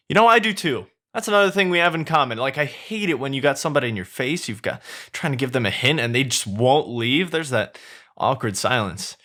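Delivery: high, excited chattering donkey. Acted. Donkey flatters Shrek in a high excited voice. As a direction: gush at him, high and eager.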